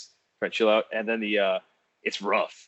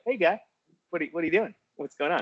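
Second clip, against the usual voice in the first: cop voice; 7 semitones higher than usual. Retold or imitated.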